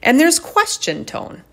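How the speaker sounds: "question tone" lifted high, lighter inflection. Shown as a demonstration. Speaker showing the inflection in the voice, question tone. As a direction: raise the pitch on "question tone" like asking. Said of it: "You could see the inflection in my voice right there".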